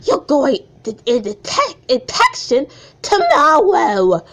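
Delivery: a mild stern teacher announcing news; Miss Watson voice. Acted. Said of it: "I'm gonna do the voice impression".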